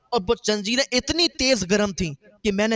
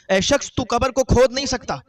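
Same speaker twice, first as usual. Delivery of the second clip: raised, higher warning from the grave; stern warning; 4 semitones higher, 4 dB louder than usual. Retold or imitated. Grave voice warns the digging brother, raised and stern. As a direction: repeat the warning louder and higher.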